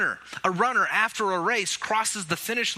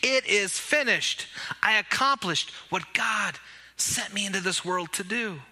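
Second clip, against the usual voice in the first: triumphant; 2 semitones higher than usual. Acted. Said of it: "he said triumphantly".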